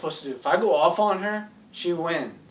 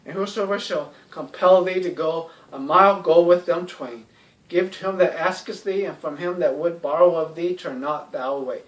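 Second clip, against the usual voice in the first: scripture reading. Acted. Reads Bible verse aloud.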